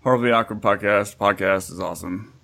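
a hint of a put-on announcer voice; mock normal voice. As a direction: pretend to sound serious and normal. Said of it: "I'm just gonna talk normal now".

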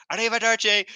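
loud, high-pitched shout; retold yell. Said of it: "then she just yells".

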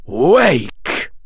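a sharp command to wake; commanding wake call. Acted. Quirrell waking Harry.

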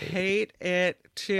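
slow, creaky drag on each word; mock vocal fry. Agreeing with a viewer's complaint, mock vocal fry. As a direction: stretch it out and let it crackle.

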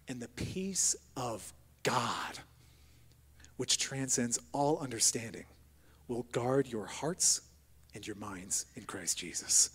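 slow, hushed whisper of the verse; whispered scripture. Acted. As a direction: breathe the verse out slowly in a whisper.

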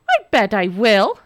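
loud snarl through teeth. Acted. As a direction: snarl it back defiantly. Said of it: "snarled Nora, gritting her teeth".

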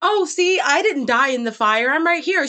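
high, airy, unbothered; breezy nonchalance. Retold or imitated. Bree brushing off the little seer, high and breezy. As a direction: toss it off lightly, high.

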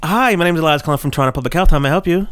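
lightly voiced phone greeting; a hint of the friendly call-centre voice; customer service voice. Shown as a demonstration. Asked by friends to show his customer service voice, lightly friendly. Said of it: "Can we hear it?".

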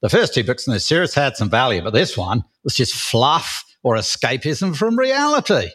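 put-on Aussie accent; Australian accent. Shown as a demonstration. Co-host rereads the one-star review after a dare, in an Australian accent. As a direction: read it out as an Aussie would. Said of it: "Can I do it in an Australian accent?".

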